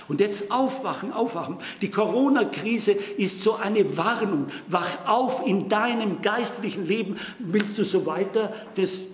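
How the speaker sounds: urgent appeal. Real, not acted. Preacher urging congregation to wake up spiritually, pleading loudly. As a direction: shake the listeners awake.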